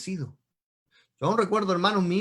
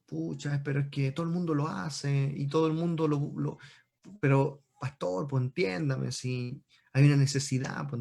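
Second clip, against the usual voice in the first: mock quiet justifying; excuse-making; 2 semitones lower, 3 dB quieter than usual. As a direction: imitate a believer sheepishly pleading with the pastor. Voices believers making excuses to pastor.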